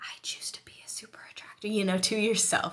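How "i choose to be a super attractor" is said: hushed, very quiet whisper. Suggesting an affirmation to whisper to yourself, said in a whisper. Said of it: "That might sound creepy when I'm whispering here".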